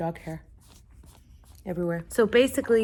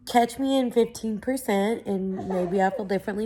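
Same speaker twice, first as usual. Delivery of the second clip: real crying; 4 dB quieter than usual. Real, not acted. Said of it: "I apologize for crying".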